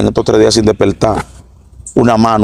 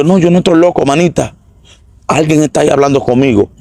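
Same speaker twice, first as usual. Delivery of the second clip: high-pitched, pleading insistence; retelling the frantic protest at a much higher pitch; frantic insisting; 5 semitones higher than usual. Retold or imitated. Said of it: "desperté dando gritos locos".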